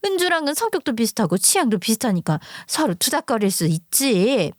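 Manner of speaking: two mothers bickering, voiced lightly by the narrator; a touch of an angry mother standing up for her daughter; heated quarrel. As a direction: argue like an offended neighbour mom. Acted quarrel between two mothers.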